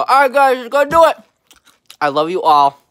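shouted hyped sign-off; loud outro. Real, not acted. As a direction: yell the goodbye with energy.

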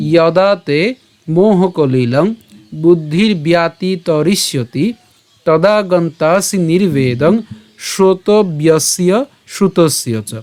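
slow, measured shloka recitation; Sanskrit verse recitation. Shown as a demonstration. Teacher presenting the Gita verse to a class, slow Sanskrit recitation. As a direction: draw out the long vowels, syllable by syllable. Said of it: "আমরা যদি আবার বলি".

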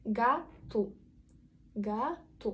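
ГАТУ with stressed A and final U; unstressed O as U. Shown as a demonstration. Teacher demonstrates vowel reduction, ГАТУ ending in U. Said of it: "вимовляємо його як У".

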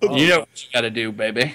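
mock seductive.

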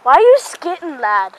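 light British lad voice, teasing; a hint of a British lad asking; mock British accent. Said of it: "I learned that one from Marine Hawk".

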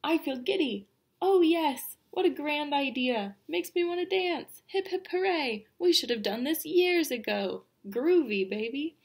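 high, giddy exclamations from a crowd; excited. A narrator's reading. Party guests welcome switching places, excited. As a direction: pipe up gleefully, one cheer after another. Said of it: "A wave of excitement swept through the room".

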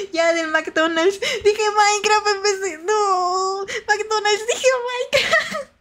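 high, drawn-out wail at your own slip; laughing wail. Real, not acted. Streamer realizing she said Minecraft for McDonald's, laughing wail.

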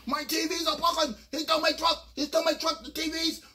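mock hollering over the truck; hollering owner. Owner hollering about his stolen truck. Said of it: "Asian guys start hollering".

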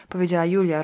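plain reading voice

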